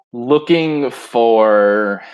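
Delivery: slow, low, talking around a spoon; spoon in mouth. Acted. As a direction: speak with a spoon in your mouth. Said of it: "Mikael goes".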